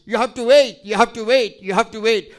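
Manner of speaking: loud then fading repetition; emphatic repeated wait. Real, not acted. Preacher urging the congregation to wait, emphatic.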